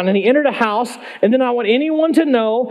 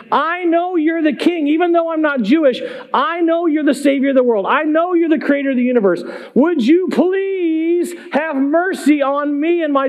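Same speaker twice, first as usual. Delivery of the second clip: higher-pitched, building plea; imitated calling out; 4 semitones higher than usual. Mother begs Jesus for mercy on her daughter, imitated calling out. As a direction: plead earnestly, stretching out the "please". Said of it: "She's calling out to him saying".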